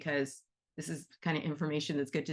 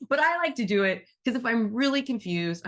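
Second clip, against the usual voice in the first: louder, laughing through the words; laughing while talking; 5 semitones higher, 6 dB louder than usual. Real, not acted. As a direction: let the laugh spill into the sentence. Laughing after her joke.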